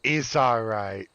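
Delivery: slow, drawn-out reassurance. Shown as a demonstration. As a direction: start it a little high and soothe. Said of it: "I went too high".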